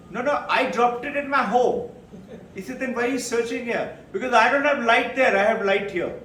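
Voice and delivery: foolish Mullah. Retold or imitated. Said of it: "Mullah's foolish reply in joke".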